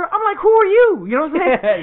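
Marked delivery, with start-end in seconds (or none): 0.4-1.1 high-pitched, baffled acted question; incredulous, pitched way up; mock bewilderment. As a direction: demand it in comic disbelief. Challenges the stranger at the door.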